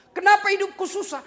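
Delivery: loud lament. Pretend. Preacher voices a believer's loud lament. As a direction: shout the complaint out. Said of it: "complaint quoted again".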